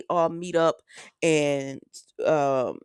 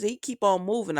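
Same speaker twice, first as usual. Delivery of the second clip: ordinary talk, nothing marked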